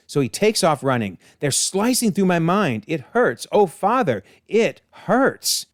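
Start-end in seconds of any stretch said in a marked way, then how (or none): 1.4-5.7 higher-pitched dramatic suffering; hammed-up hurt; acted anguish. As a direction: plead as if in pain, climbing in pitch. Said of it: "as Cain screams".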